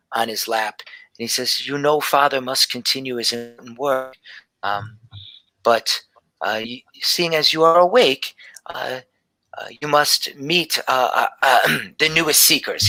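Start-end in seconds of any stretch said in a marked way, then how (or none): 1.7-12.9 put-on old father. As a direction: speak down gently to the child as her father. Father continues.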